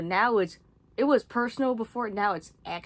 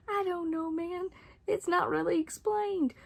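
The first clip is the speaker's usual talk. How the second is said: laughing; 10 semitones higher than usual. Real, not acted. Laughs at the unexplained plot.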